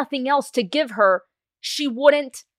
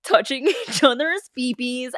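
laughing; 4 semitones higher than usual. Real, not acted. Laughing at own phrase.

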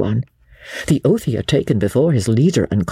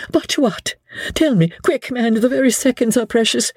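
higher, hurried lady's voice; urgent plea; 12 semitones higher than usual. A narrator's reading. Lady Blakeney urging Sir Andrew to speak, higher and urgent. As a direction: press him, no time left.

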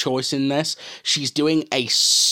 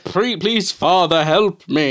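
pleading monk; 6 semitones higher, 4 dB louder, slower than usual. Retold or imitated. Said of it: "He's like".

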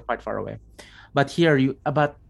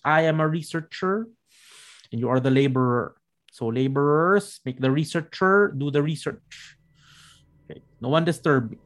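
lightly voiced unhinged researcher; bossy mock lecture to the zombies, a touch manic; game master voicing a crazed researcher, a bit crazy; a bit crazy masculine voice; 3 semitones higher than usual. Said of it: "the voice sounds masculine".

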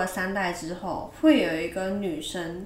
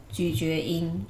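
chewing while talking; 2 semitones lower, slower than usual. Real, not acted. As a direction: mouth full of edamame. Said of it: "你们可能会听到一些咀嚼音".

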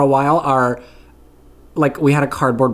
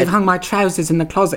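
higher, put-on low-class British accent; 5 semitones higher, faster than usual. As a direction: imitate a complaining low-class British film character. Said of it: "low-class accents like that".

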